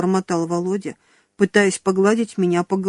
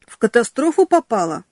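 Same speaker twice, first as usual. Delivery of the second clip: horrified question; 3 semitones higher than usual. Acted. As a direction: gasp it out in horror. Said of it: "ужаснулся Серёжка".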